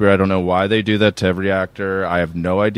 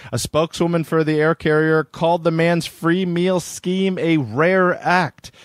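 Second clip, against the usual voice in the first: higher-pitched presenter read; news article read; 7 semitones higher than usual. Acted.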